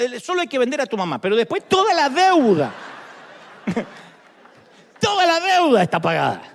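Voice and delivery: lines voiced through laughter; laughing comic dialogue. Preacher voicing husband and wife on the phone, laughing through it. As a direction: crack up while playing the couple.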